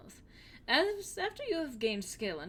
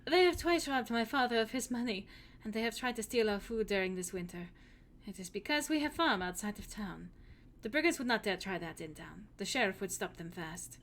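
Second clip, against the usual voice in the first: put-on lightly held German accent, telling of robbers; a hint of a worried German farm girl. Hilda tells about the brigands in a German accent. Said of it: "trying to do an accent".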